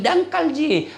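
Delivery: slow. Retold or imitated. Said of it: "Nah bilang".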